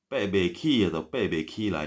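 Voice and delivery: P B K rushed out very fast; fast mumbled version. Shown as a demonstration. Teacher showing the quick slurred version, very fast. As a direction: rattle off P B K quickly. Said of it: "itu aslinya begitu".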